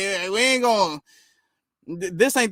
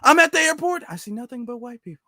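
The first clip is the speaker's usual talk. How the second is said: mock soothed tone; 3 semitones higher than usual. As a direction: mimic his tone melting into relief. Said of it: "just notice the tone".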